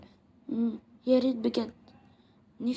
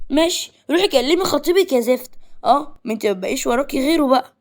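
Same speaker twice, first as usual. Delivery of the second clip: higher, louder angry snap at her friend; angry outburst; 3 semitones higher, 5 dB louder than usual. Acted. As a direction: lash out in jealous anger. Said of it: "آسيا راحت قالت بعصبية". (بعصبية وصوت عالي)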